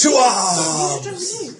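battle cry. Acted. Captain rallies the crew against the pirates with a battle cry. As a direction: call the crew to fight.

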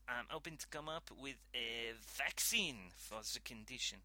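lightly voiced French scientist, pleased; mild French accent, halting praise. Scientist praising colleagues about the disease, light French accent.

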